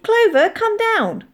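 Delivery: high, loud, drawn-out call; calling the cat. A narrator's reading. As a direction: summon the cat down from above, slowly. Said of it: "I called".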